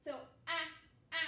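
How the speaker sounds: "a" said as a short open a, like in cat; short a sound. Shown as a demonstration. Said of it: "that's why it says its short sound".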